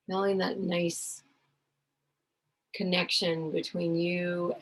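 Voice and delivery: unhurried meditation voice with long pauses; guided visualization. Real, not acted. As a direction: guide them gently inward, leaving space to breathe between phrases.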